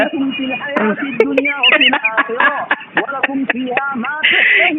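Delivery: loud, jeering challenge; yelling a challenge at the other debater; shouting. Real, not acted. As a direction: bellow the dare at the rival.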